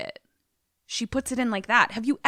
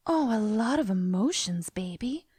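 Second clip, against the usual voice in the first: put-on soothing, fading softer; affected; 4 dB quieter than usual. Woman soothing crying lover, affected and fading soft. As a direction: imitate her affected sympathy. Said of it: "everything she says is in a very affected".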